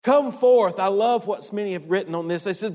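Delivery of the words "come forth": calling out with a loud voice; loud call of Jesus. Acted. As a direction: summon him loudly, firmly. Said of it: "with a loud voice, Jesus called out".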